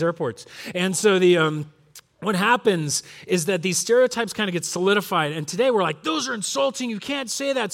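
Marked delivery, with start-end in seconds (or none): 6.0-7.7 high-pitched offended objection; mock indignation. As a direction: imitate someone taking offence. Mimics today's offended culture.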